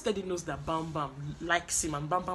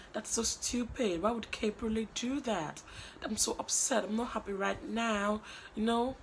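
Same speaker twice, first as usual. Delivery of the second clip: whiny Bam Bam; 4 semitones higher than usual. Retold or imitated. Mocking Bam Bam's fake upset to viewers, high whine. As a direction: drag out the pout. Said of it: "She was like".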